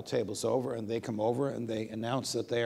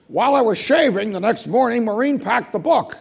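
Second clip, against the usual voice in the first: higher and louder throughout; conspiratorial Scalia; 11 semitones higher, 11 dB louder than usual. Retold or imitated. Scalia explaining the packed book, high and loud. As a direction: confess the mishap with relish.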